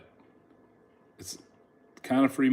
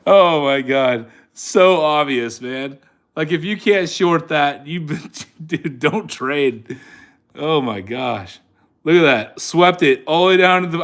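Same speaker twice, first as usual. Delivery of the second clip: amazed; 2 semitones higher, 5 dB louder than usual. Real, not acted. Amazed at obvious move.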